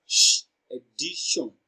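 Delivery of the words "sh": "sh" as a drawn-out hushing consonant; isolated SH sound. Shown as a demonstration. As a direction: say just the "sh" sound, no vowel. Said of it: "is pronounced as".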